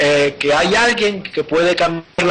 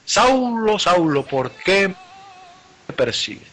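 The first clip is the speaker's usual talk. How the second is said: llamado solemne de Jesús; 3 semitones higher, much slower than usual. Acted.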